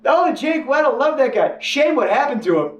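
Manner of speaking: high, bright mock-cheery gossip; friends gossiping. Freelance friends about Jake, high mock-cheery gossip. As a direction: chirp it like a friendly insider. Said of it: "they'd be like".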